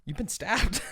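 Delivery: breathy gasp rising into a high loud yelp; shocked disbelief. Retold or imitated. The girl finding him stabbed, hushed then shrieking high. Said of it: "she's like".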